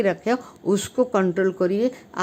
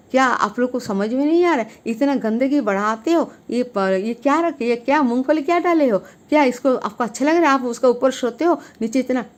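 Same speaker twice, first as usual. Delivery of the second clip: brisk retold scolding of fellow passengers, a little raised; angry scolding; 5 semitones higher than usual. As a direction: mildly replay the angry telling-off. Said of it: "मुझे बहुत गुस्सा आ रहा था". (यात्रियों को गुस्से में डाँटना, थोड़ा नाटकीय)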